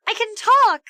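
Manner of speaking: high, loud joyful shout. A narrator's reading. Girl getting her voice back, shouting high and loud. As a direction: shout it out in relief. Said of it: "shouted Jenny".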